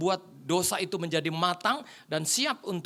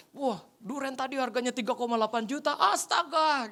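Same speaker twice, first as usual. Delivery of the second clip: shocked; 4 semitones higher than usual. Retold or imitated. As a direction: imitate a guest's amused disbelief. Tamu kaget mendengar harga durian. (kaget, menirukan tamu)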